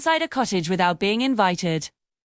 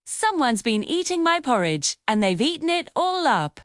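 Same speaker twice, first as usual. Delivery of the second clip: put-on teeny tiny voice; 3 semitones higher than usual. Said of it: "In his teeny tiny voice, he cried".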